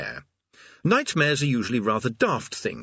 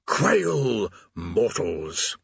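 menacing demon; much slower than usual. Acted. Demon condemns the mortals.

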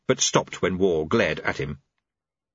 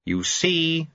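shouting; 6 semitones higher than usual. Acted. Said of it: "he shouted".

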